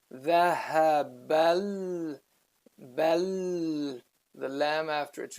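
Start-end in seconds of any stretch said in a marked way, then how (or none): 0.1-4.0 slow demo, jumping from ba straight into lam; bridged pronunciation. Shown as a demonstration. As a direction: hold the joined "bal", skipping the alif. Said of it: "So then you say".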